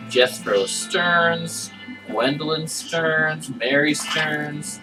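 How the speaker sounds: slow, careful reading of names. Real, not acted. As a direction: read each name out slowly.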